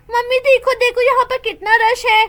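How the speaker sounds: small daughter calling to her mother; little girl's voice. Acted. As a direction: play a curious young girl tugging at mum. Little girl Neeli spots a crowd.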